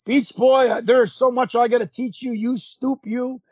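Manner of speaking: mock berating. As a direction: imitate a veteran scolding a rookie. Mimicking a berating tag partner.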